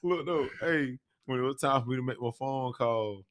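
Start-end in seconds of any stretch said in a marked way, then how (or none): 0.0-0.5 giggling, trying to get it out; amused stammer; laughing. Real, not acted. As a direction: laugh through a repeated look though. Laughing while trying to speak.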